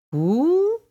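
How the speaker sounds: very high, loud owl hoot. A narrator's reading. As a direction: hoot it, swooping right up. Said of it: "an owl hooted".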